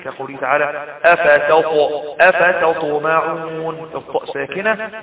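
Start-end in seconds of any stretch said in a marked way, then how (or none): 1.1-3.9 slow أفتطمعون with the still ط bounced; qalqalah on ط. Shown as a demonstration. Teacher showing mid-word qalqalah, bouncing ط in أفتطمعون. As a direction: break at the ط of أفتطمعون and let it echo. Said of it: "حروف قطب جد تقلقل".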